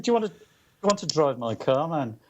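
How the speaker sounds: slightly high, lightly imitated Liverpool accent; a singer's Liverpool accent. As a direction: quote it in mild Liverpudlian. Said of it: "in his Liverpool accent".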